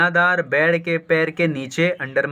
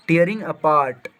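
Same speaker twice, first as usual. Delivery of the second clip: slow dictation; much slower than usual. Shown as a demonstration. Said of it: "teacher reading slowly".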